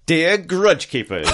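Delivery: chipper upbeat. Acted. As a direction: read it like it's the best news ever. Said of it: "A really chipper, upbeat grudge".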